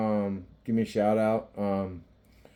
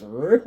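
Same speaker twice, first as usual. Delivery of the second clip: short rolled "rrr"; quick mimicked growl sound; imitated noise; 3 semitones higher, 7 dB louder than usual. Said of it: "like that".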